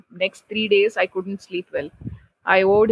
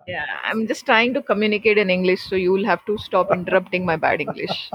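laughing. Real, not acted. Teasing back while laughing.

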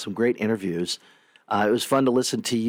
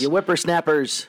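put-on grumpy old man; 6 semitones higher than usual.

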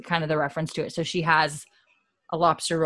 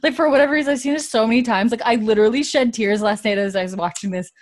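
choked up; 5 semitones higher, 7 dB louder, faster than usual. Real, not acted. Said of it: "I got a little emotion".

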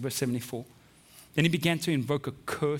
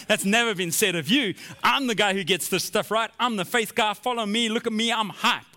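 hyped-up, higher-pitched boasting; excited bragging; 4 semitones higher, 3 dB louder than usual. Acted. Peter boasting to James and John, excited. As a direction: show off like the favourite. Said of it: "And so he's so excited".

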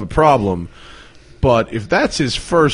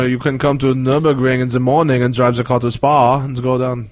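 imitation Germans, German-accented English; mock German accent. Retelling what the Germans told us, mock German accent. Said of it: "They say it like that?".

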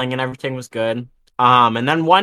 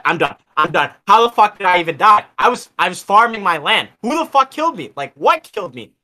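retold angry rant; 7 semitones higher, 3 dB louder than usual. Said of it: "I was pissed".

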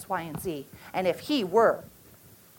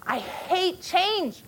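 put-on higher, slow, tearful child's protest; retold child crying; 6 semitones higher, much slower than usual. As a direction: voice the sobbing boy, drawn out. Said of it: "And he just said".

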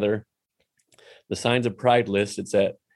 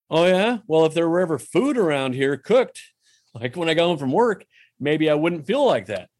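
mock defensive retort; 5 semitones higher than usual. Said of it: "that gets defensive".

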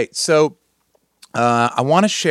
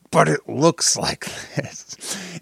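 laughing cartoon voice; 4 semitones higher, slower than usual. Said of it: "but he doesn't talk like that".

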